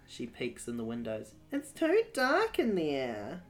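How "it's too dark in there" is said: whisper. Acted. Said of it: "she whispers".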